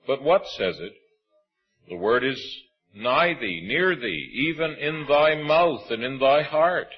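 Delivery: measured, solemn reading of scripture. Acted. Preacher reading Romans to the congregation, solemn and measured.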